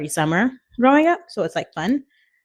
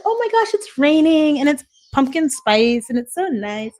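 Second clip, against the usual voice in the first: gushing excitement; 8 semitones higher, 5 dB louder than usual. Retold or imitated. Imitating own fall excitement.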